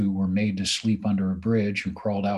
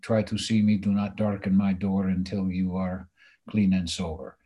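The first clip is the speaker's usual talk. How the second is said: put-on a light Greek accent, stern father; lightly imitated Greek accent. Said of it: "in his Greek accent".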